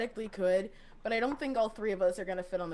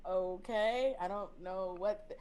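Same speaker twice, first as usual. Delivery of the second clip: understated casual brush-off, trailing softer; nonchalant; 5 dB quieter, slower than usual. Acted. Player acting unbothered on receiving the note, nonchalant. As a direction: play it chill, dropping away. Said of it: "very nonchalant".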